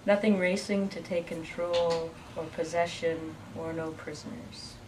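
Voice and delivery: measured verse, pausing after each line; poem reading. Acted. Poet reading another short one to the crowd, measured recital. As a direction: read a short poem, letting lines settle.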